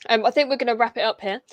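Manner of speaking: hoarse, tired voice after an hour; losing voice. Real, not acted. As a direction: voice wearing out from talking. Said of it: "I'm starting to lose my voice".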